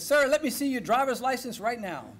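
lightly yelled order to a driver; retold yell at a stopped driver; imitated yelling. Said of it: "he starts yelling at Shard".

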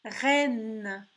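"Reine" loud with a held n; clear, drawn-out "Reine"; word sounded out. Shown as a demonstration. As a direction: project "Reine", lengthening the ending. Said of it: "écoute bien".

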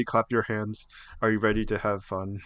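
flat, deadpan robot announcer. Retold or imitated. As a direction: read it like an emotionless robot. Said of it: "Robot voice saying".

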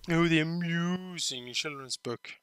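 slow hushed whisper. Real, not acted. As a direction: breathe it out secretively. Whispering echo of game voice.

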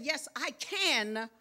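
"can" stretched out slowly; slow, emphatic "can"; stress on CAN. Retold or imitated. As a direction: hold the word "can", then pause. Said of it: "put emphasis on the word can".

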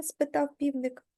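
ordinary delivery

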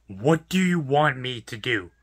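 slow, deliberate, spelled-out question; slow exasperation. Real, not acted. Worker asking the customer what he can possibly do, slowly exasperated. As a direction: draw each word out in exasperation.

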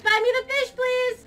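put-on bratty begging. Player pestering Fishy for the fish, mildly bratty. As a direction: nag like a little brat. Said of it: "be a little bit bratty".

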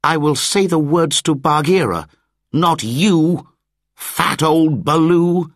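put-on high, loud, cross child's retort. A narrator's reading. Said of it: "he said crossly".

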